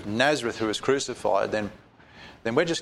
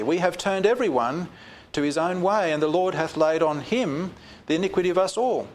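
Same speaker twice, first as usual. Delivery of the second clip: raised, ringing Bible reading; solemn raised reading voice; scripture reading; 3 semitones higher than usual. Acted. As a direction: proclaim the verse to the congregation. Reads scripture aloud.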